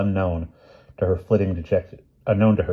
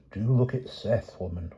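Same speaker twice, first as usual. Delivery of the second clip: hoarse, menacing whisper in her ear; grim husband whispering to his wife; terrible whisper; 3 semitones higher, 7 dB quieter than usual. Acted. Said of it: "whispered Amos terribly".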